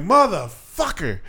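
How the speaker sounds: slow, soft, drawn-out motherfucker; defeated curse. Retold or imitated. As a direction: sink into it, resigned. Her inner reaction, third time.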